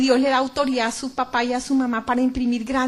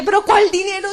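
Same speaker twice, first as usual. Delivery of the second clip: higher, louder protest; indignant shout; 6 semitones higher, 7 dB louder than usual. Retold or imitated. Accused of worshipping money, she shouts back louder. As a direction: fire back the question loud and high. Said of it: "yo grité".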